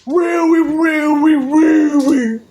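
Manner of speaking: loud, very high-pitched voice; opposite of deep. Shown as a demonstration. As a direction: belt it out high, word by word. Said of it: "just the opposite".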